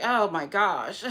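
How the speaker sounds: slow, drawn-out exasperation; real fed-up disbelief; irritated. Real, not acted. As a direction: groan the words out in frustration. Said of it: "I'm just so irritated".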